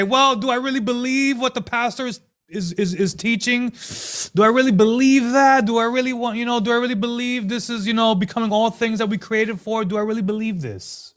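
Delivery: lightly voiced doubter wondering aloud; a touch of a skeptical churchgoer; doubting Christian.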